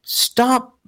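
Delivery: put-on high, slow little-girl command voice; a tiny toddler calling the dog in, high and slow; imitating his little daughter. Father imitating his toddler scolding the dog, high and slow. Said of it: "the tone and the".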